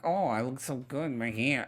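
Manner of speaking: soft, half-hearted Southern belle; badly faked Southern belle, softly; terrible Blanche voice. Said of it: "that's a terrible Blanche voice".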